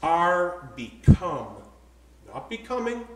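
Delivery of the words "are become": deliberate, low reading with long pauses; measured pulpit reading; slow scripture reading. Real, not acted. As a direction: read the verse word by word, weighing each. Reads scripture slowly, with emphasis.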